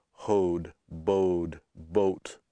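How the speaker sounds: "hoed, bowed, boat" with a long English o; closed O. Shown as a demonstration. Teacher giving English examples, long o in "hoed, bowed, boat". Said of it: "we have that sound O".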